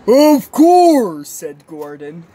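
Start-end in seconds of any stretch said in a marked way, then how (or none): 0.1-1.3 loud, high, drawn-out exclamation; emphatic agreement. Acted. Big engine answering the others, loudly emphatic. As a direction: agree at full volume.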